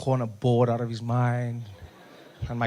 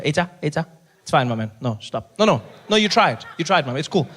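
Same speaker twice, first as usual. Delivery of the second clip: brisk call-off; 4 semitones higher, 4 dB louder than usual. Acted. Acts stopping doctor over the bill.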